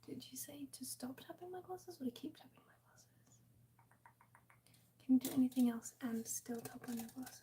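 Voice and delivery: breathy close whisper to chat. Real, not acted. ASMR stream whispering throughout.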